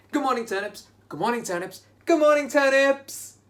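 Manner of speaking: high sing-song good morning; cheerful greeting. Pretend. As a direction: greet the turnips brightly. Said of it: "Let's all say good morning".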